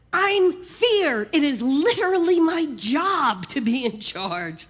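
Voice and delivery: a worrier defending its post; indignant Fear. Acted. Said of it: "And Fear says".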